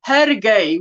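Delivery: Hergé with the final T left silent; South African pronunciation. Shown as a demonstration. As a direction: say Hergé without sounding a T at the end. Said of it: "We would not pronounce the T".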